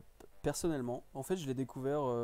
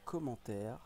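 slow, with gaps between words; dictating while typing; 5 dB quieter, slower than usual. Real, not acted. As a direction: say each bit as you type it. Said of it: "pendant que j'écris ce commentaire".

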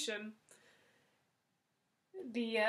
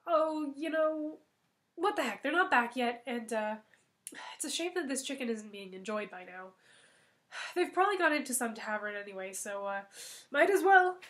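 lightly voiced cook talking to herself; tempted, half-guilty musing; a hint of a greedy cook; Gretel musing; 5 dB louder than usual. Gretel muses aloud to herself.

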